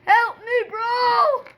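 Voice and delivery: calling for help. Pretend. Stuck in water calling for help.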